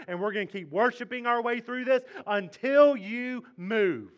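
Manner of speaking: loud, rising, resolute vow; determined declaration. Pretend. Preacher voicing Jehoshaphat's defiant vow, loud. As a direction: declare it like a battle cry. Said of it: "This is an act of".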